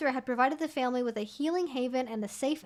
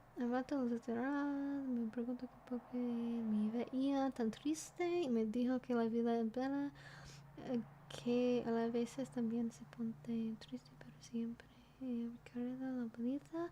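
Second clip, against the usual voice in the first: very soft whispered Spanish, "me" drawn out; 12 dB quieter than usual. Reading aloud a Spanish post they found, the speaker is whispering. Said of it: "I realize I'm whispering Spanish into the fucking microphone".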